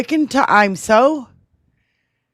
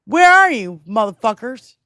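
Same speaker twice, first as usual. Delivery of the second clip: louder, higher, demanding; angry call-out; 4 semitones higher, 4 dB louder than usual. Real, not acted. Host calling out hypocrites, angry shout.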